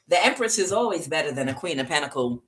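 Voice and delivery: talking with a mouthful; words round a bite of food; mouth full. Real, not acted. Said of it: "Sorry, I had something in my mouth".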